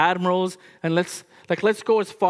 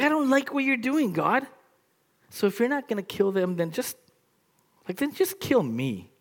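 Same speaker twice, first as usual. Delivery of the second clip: petulant complaint; 5 semitones higher, faster than usual. Acted. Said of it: "what Jonah's really saying".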